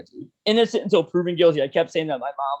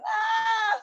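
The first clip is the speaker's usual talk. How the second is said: cocky scoff; 4 dB quieter than usual. Retold or imitated. Answering the judge.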